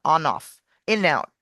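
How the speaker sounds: "on off, in out" as "o-noff, i-nout"; linked words. Shown as a demonstration. Coach gives linking examples, "on off, in out" run together. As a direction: slide each N onto the next vowel in "on off, in out". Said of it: "a consonant and a vowel".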